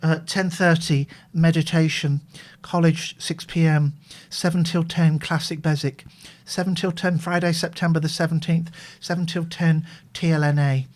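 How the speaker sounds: mildly downcast, monotone diary reading; sad diary voice. Real, not acted. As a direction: read out appointments with a touch of gloom. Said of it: "It was a sad diary voice".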